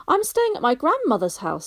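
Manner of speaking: a hint of a young boy answering; Barney voice. A narrator's reading. Young Barney telling the stranger, lightly voiced boy.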